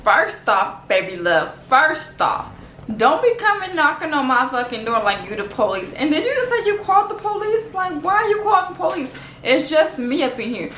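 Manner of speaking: indignant retort, rising high in the questions; mock confrontational comeback; acted telling-off. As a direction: tell off the neighbour, lightly hammed up. Acts out telling off the neighbour.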